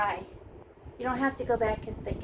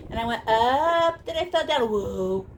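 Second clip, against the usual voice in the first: excited; 7 dB louder than usual. Retold or imitated. Retelling brush jumping up.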